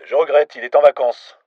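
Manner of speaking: a flustered desk clerk answering; receptionist. A narrator's reading. Receptionist hesitantly answering an unexpected foreign caller.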